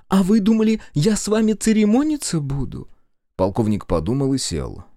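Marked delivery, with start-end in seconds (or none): 0.1-2.9 put-on high, loud cheeky girl; brazen Masha. A narrator's reading. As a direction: scoff at him boldly.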